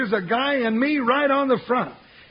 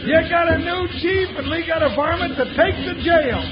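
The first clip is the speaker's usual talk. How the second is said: excited calling out; 4 semitones higher than usual. Acted. Sidekick leads a celebration.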